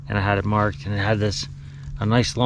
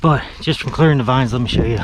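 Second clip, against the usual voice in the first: panting between words; out of breath; faster than usual. Real, not acted. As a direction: talk while catching your breath. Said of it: "Sorry, I'm a little out of breath".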